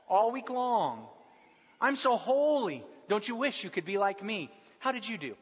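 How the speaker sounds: hammed-up holy bragger. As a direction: play the self-satisfied saint, drawing out the boast. Voicing a smug holier-than-thou member.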